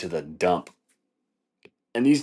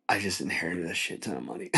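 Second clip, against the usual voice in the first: hushed, softer mock-gleeful aside; secretly gleeful; 6 dB quieter than usual. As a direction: say it softly like hiding a thrill. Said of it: "the way that she said it was like".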